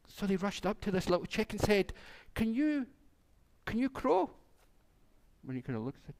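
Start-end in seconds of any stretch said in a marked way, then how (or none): 2.3-4.3 eager question. Acted. Farmers eagerly ask the chick.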